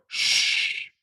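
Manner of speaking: a mild take on a very deep voice warning the others; deepest voice. Retold or imitated. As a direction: mimic a big man's deep hush. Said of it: "in, like, the deepest voice you've ever heard".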